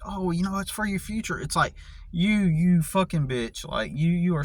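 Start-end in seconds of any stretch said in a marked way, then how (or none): 0.0-1.4 high breezy mimicry; airy sing-song imitation; mocking casual voice. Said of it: "just randomly state".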